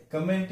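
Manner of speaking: कमेंट as kuh-MENT; weak first vowel in कमेंट; wrong pronunciation. Shown as a demonstration. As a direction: mistaken short "kuh" starting कमेंट. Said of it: "सही उच्चारण नहीं है".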